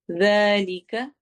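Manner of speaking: ज़ालिका begun with a soft th-like dh; soft dhal. Shown as a demonstration. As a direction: soften the first sound of ज़ालिका. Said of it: "ज़ालिका में दाल को नरमी से पढ़ेंगे".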